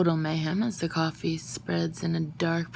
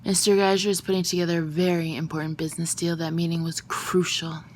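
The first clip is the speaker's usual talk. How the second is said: haranguing; 4 dB louder than usual. Acted. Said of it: "strides around haranguing me".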